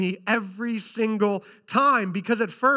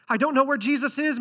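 higher, louder urgent plea; 6 semitones higher, 4 dB louder than usual. Acted. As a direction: sound desperate to find him. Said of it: "Mary said urgently".

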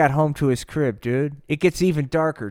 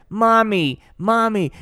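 mock crying mommy; 6 semitones higher, 4 dB louder than usual. Slider running to mom.

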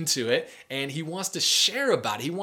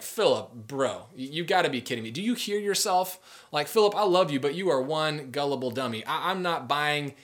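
exasperated. Retold or imitated. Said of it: "Nathanael just loses it".

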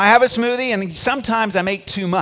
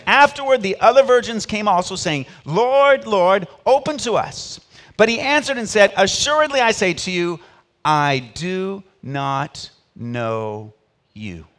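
louder, dramatic Bible reading, slowing hard at the end; scripture reading; 4 dB louder than usual. Acted. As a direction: proclaim the verse, then drag out the final words. Reads scripture aloud.

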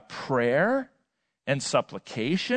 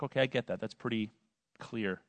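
softer, lower, fading off; acted muted agreement; low-key acceptance; 6 semitones lower, 11 dB quieter than usual. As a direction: voice a listener quietly conceding. Acts out listener's low-key response.

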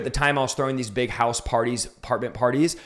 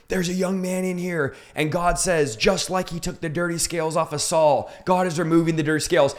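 higher-pitched preacher calling out a word; imitated preacher; 4 semitones higher than usual. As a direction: retell it as a preacher addressing the altar. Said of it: "The preacher gets on stage".

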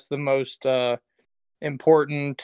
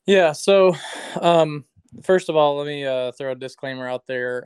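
underwater. Real, not acted. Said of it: "I apologize if I sound like I'm underwater".

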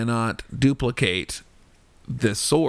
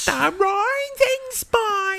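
very high, annoying squawk; screechy caricature of a Cockney girl; Eliza Doolittle; much slower than usual. Shown as a demonstration. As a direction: put on the most irritating high-pitched Cockney voice. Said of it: "sound as annoying as you possibly can".

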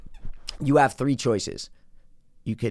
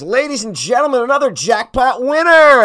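high, loud casino announcement; imitated jackpot hype voice; loudspeaker announcer; 11 semitones higher, 8 dB louder than usual. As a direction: draw out the final words like an announcer. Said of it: "the guy put the thing goes".

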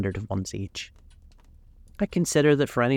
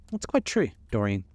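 eager cry. A narrator's reading. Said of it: "cried Hallward".

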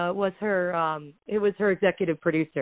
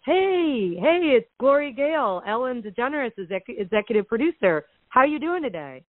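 higher-pitched, imitated producer's phone hello; upbeat greeting; 4 semitones higher than usual. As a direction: greet them brightly, as a producer would. Producer greets Willow on speakerphone.

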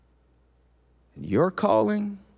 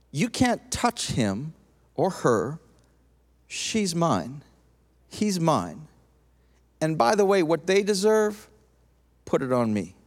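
protective Jesus; 5 semitones lower than usual. Pretend. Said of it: "He says to the accuser".

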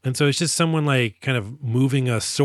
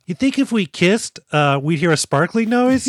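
dreamy Katsushiro; 4 semitones higher, 5 dB louder than usual. Retold or imitated. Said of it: "Katsushiro's like".

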